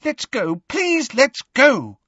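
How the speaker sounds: very high, panicked pleading; high-pitched terror. A narrator's reading. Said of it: "in a high-pitched and terrified voice".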